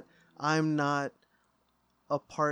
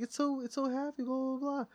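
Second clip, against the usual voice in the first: mimicking mom; 10 semitones higher, 5 dB quieter than usual. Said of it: "She's like".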